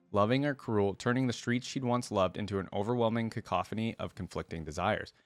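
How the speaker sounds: measured read-aloud of a biography; deliberate storybook phrasing; story narration. A narrator's reading. Reads champion story aloud.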